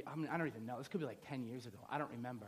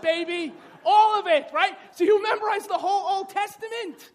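loud, raised-pitch sermon building to shouts; full-force preaching; 7 semitones higher, 9 dB louder than usual. Real, not acted. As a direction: build to a fired-up pulpit climax.

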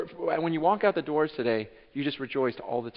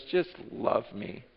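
tender whisper; 5 dB quieter, slower than usual. Acted. Jesus voiced tenderly in sermon.

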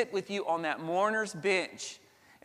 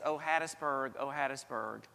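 lament; 3 semitones lower, 4 dB quieter than usual. Retold or imitated. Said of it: "but maybe it's".

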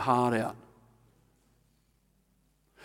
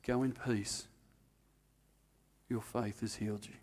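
soft, hushed and tender; a quiet blessing to someone on the ground; gentle blessing; 6 semitones lower, 12 dB quieter than usual. Retold or imitated. Jesus speaking softly to the healed woman.

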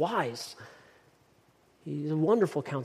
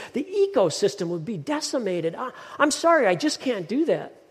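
exasperated genie objecting; 2 semitones higher than usual. Acted. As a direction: reel off the objections, then refuse apologetically. Genie refuses the impossible wish.

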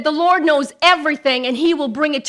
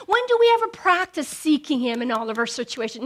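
ordinary talk, nothing marked

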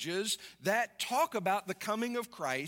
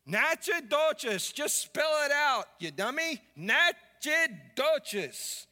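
higher, insistent comic contradiction; mock exasperated wife; 6 semitones higher, 3 dB louder, slower than usual. Wife correcting her husband in the car, exasperated. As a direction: argue back in a mock huff, dragging out the place name.

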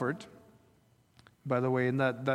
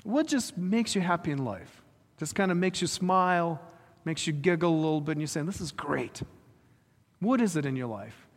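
probing questions. Pretend. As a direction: ask it like a caring counselor. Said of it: "Let me ask them".

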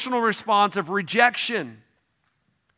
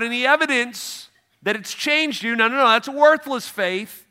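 blunt James voiced; 4 semitones higher, 3 dB louder than usual. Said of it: "He's like".

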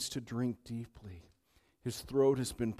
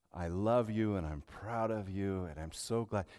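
tender wife's words; 4 semitones lower than usual. Retold or imitated. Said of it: "when Donna says".

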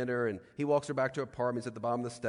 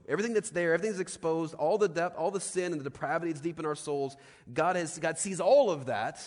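loud, high, building intensity; swelling pulpit proclamation; preaching at full force; 6 semitones higher, 7 dB louder than usual. Acted. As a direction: drive it home like a preacher at full cry. Preaching climax, rising intensity.

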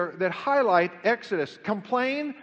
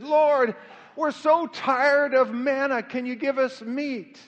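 slow, raised-pitch mock complaint; whining complaint; 4 semitones higher, 4 dB louder, slower than usual. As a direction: act out weary people begging, drawn out. Retold complaint of the weary Israelites.

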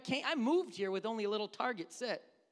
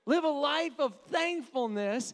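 louder, slow, rising preacher call; preached emphasis; 6 semitones higher, 7 dB louder than usual. Acted. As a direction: drive the word Live home to the congregation. Preacher repeats key point.

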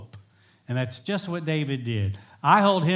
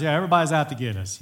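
quick, louder mock complaint; joking complaint; 5 dB louder, much faster than usual. Family's running joke at the house, joking quick complaint. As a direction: toss it off fast as a running joke. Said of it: "We kind of have a joke".

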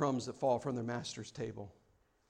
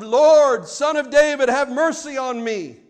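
fancy prayer; 8 semitones higher, 12 dB louder than usual. Retold or imitated. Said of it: "the fancy prayer of".

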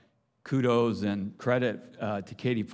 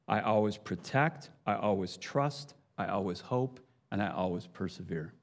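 scripture reading. Shown as a demonstration. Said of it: "So let me read it that way".

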